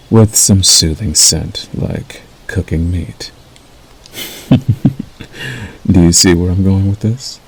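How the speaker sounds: measured, unhurried wolf mentor role; lightly voiced werewolf guiding a new packmate. Acts wolf role to listener.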